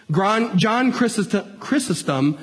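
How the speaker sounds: stumbling over "Chrysostom", restarting it; botched name. Real, not acted. Preacher fumbling a church father's name, halting stumble. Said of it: "I butchered it".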